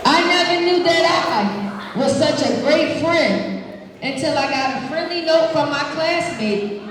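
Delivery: put-on expressive read-aloud to kids; reading to children. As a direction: read it warmly to the class. Reading picture book aloud.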